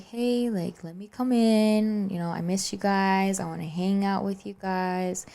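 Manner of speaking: lightly voiced wheedling grandma; coaxing grandma. Grandma at the locked door asking to come in, mock coaxing.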